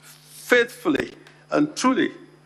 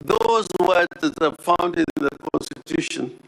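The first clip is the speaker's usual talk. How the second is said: normal talking voice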